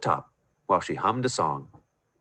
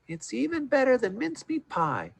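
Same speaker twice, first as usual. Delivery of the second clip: happy sigh; 14 semitones higher than usual. A narrator's reading. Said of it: "with a happy sigh".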